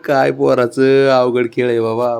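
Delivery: chuckle, then draw the remark out; amused chuckling. Real, not acted. Chuckling fondly at the pet. (हसून, सावकाश)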